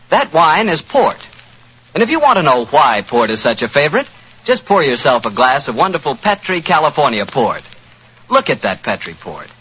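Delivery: smooth announcer selling wine; polished vintage wine commercial voice; radio ad read. Acted. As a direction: sell it like a forties radio pitchman.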